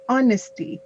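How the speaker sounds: "honesty" starting on an "aw" vowel; silent H. Shown as a demonstration. Teacher correcting student's reading, "honesty" with silent H. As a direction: say "honesty" without any H, like the start of awesome. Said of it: "that H is silent".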